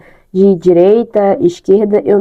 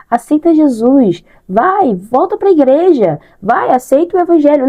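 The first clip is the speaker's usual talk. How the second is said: pushy preaching; 6 semitones higher than usual. Retold or imitated. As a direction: nag her to convert. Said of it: "olhar pra ela e falar".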